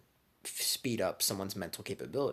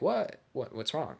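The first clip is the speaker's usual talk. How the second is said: a sudden high "What?" that settles back down; jumping up high on the first what, then shrugging; mock innocent surprise; 3 semitones higher, slower than usual. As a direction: play dumb with one squeaky what. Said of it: "I'm like".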